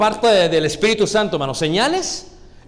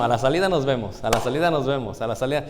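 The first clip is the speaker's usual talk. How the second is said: low, muttered threat to meet after school; lightly voiced tough kid daring a fight; Mexican schoolyard threat; 5 semitones lower, 3 dB quieter than usual. Listeners threaten the preacher, a mild mock challenge. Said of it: "Como decían en México".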